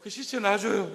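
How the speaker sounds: loud pleading mock cry; acted tearful plea. Preacher as Mary begging for the body, acted tearful plea. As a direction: imitate begging through wailing. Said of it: "그러면서 막 우는".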